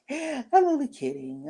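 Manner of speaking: laughing it off. Retold or imitated. Imitating the friend laughing off an insult.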